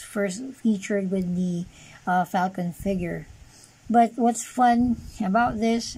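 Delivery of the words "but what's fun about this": sarcastic. Real, not acted. Toy reviewer mocking his figure's flaw, sarcastic. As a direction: feign that this is fun. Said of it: "actually, I'm being sarcastic".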